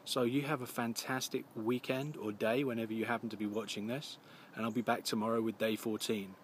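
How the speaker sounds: slightly scratchy voice from a coming flu; a touch of gruffness in the throat; gruff scratchy voice. Real, not acted. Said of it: "I do apologise if I sound a little gruff".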